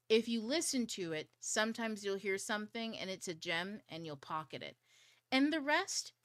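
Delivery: a loose, exaggerated take on her husband; bad husband impersonation. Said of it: "me impersonating him".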